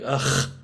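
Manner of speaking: imitated out-loud "ugh" of disgust; audible mock groan. Host imitating rude shopkeepers facing English speakers, audible groan. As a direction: let the scornful groan be heard. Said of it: "They're, like, out loud".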